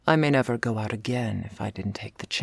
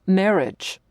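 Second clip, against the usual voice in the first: higher, louder scandalised exclamation; exasperated outburst; 8 semitones higher, 6 dB louder than usual. Acted. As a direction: blurt it out in disbelief. Shocked at the listener's suggestion.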